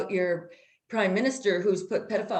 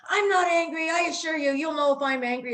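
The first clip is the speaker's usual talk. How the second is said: high, heated denial in the cop's voice; retold angry cop; 8 semitones higher than usual. Officer answering a driver who asked about his anger, mock angry shout. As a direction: imitate an officer angrily insisting he is calm. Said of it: "He was so freaking angry".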